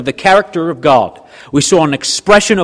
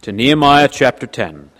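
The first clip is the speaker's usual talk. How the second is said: blocked nose from allergies; stuffy nose. Real, not acted. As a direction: speak through a stuffy nose. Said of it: "I'm sorry for my stuffy nose voice".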